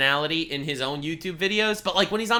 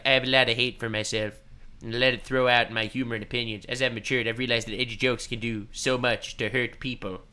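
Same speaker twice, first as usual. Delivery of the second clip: lightly voiced scripted apology, quick and lower; mock apology video; 5 semitones lower, faster than usual. Streamer mock-reads a YouTuber apology statement. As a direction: read it like a hollow apology.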